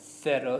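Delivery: "cero" echoed as THEH-ro; tongue between the teeth to start "cero". Shown as a demonstration. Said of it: "we stick our tongue out".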